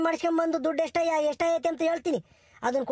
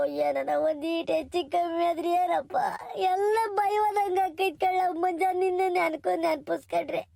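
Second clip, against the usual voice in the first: tearful grandmother; 4 semitones higher than usual. Acted. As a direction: cry out her relief that he survived. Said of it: "ಅಳ್ಬೇಡ".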